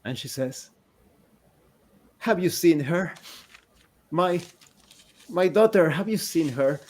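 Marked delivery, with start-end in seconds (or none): 2.2-6.8 pleading, raised voice of a distraught mother; a mother desperate for her lost child; grieving mother. Acted. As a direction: beg them for news of her daughter. Grieving woman pleads with players.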